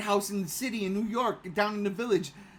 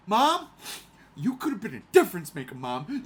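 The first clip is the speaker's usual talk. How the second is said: pleading with mom; 3 semitones lower, 4 dB louder than usual. Retold or imitated. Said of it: "I say all the time".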